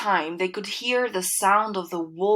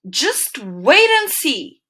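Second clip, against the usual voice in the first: slow, louder warning from the wolf; a touch of growling menace; menacing wolf; 5 semitones higher, 5 dB louder, slower than usual. A narrator's reading. Wolf warns the pigs, slow and menacing. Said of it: "he growled".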